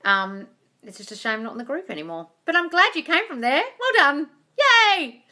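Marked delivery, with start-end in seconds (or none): 3.8-5.2 high, loud little cheer; a quick squeal of joy. Real, not acted. Praising a viewer with a high, loud cheer.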